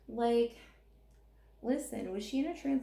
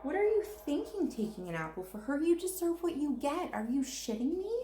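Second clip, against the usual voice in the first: incredulous rant; 5 semitones higher than usual. Real, not acted. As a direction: berate her like she's standing right there. Ranting at Snow White.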